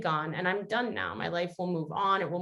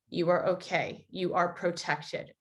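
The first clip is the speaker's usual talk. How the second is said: calm, steady reassurance; 3 dB quieter than usual. Acted. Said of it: "This voice is calm. This voice is steady".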